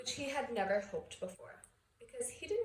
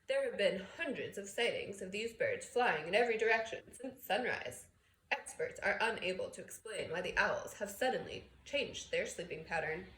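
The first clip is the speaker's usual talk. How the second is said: lightly voiced TV newsreader, louder and crisp; news read; 4 dB louder than usual. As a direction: read it like the evening bulletin. Newsreader's bulletin.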